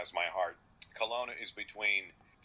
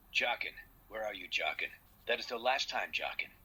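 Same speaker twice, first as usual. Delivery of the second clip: put-on anime-style animated character voice. Showing a run of past roles in one minute: Shomru voice. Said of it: "This is Shomru from Inuyasha".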